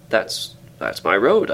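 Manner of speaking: crying out. Acted. Narrator seeing his own road beyond the gate, amazed. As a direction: blurt it in amazement. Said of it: "I cried".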